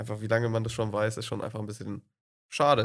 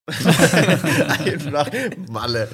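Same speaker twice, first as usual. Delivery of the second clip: laughing; 2 semitones higher, 6 dB louder, much slower than usual. Real, not acted. Joking answer, laughing.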